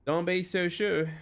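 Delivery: slow, slipping into a Texan drawl; botched accent turning Texan; accidental Texan accent. Acted. Elma doubts the newcomer, in an accidental Texan accent. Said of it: "that suddenly turned way to Texan".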